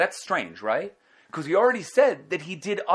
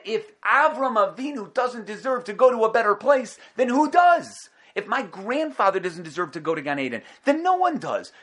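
indignant; 5 semitones higher than usual. Acted. Esav's indignant reasoning voiced.

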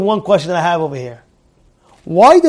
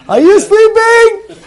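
much higher, slow, in a teasing put-on voice; drawn-out teasing call to catch her out; sing-song check; 14 semitones higher, 4 dB louder, slower than usual. Father teasingly checking if daughter sleeps, sing-song. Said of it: "she's going like this".

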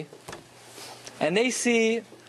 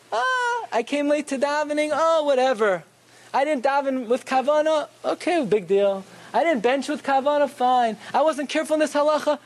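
mock shrug-it-off voice, opening on a high "Ah"; easygoing dismissal; 3 semitones higher than usual. People excusing their own lapses to themselves, breezily dismissive. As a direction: wave each fault away, lightly imitating excuses. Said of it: "People are very easy, easily overlooked".

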